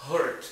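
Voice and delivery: "heart" with the vowel of "hurt"; heart mispronounced as hurt. Shown as a demonstration. Teacher showing a learner's mistake, "heart" said as "hurt". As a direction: swap the open vowel for "hurt". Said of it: "em vez de falar heart".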